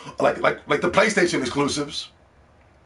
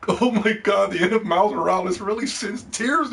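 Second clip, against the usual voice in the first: mock weepy reviewer; 4 semitones higher than usual. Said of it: "crying ass, babbling ass reviewers".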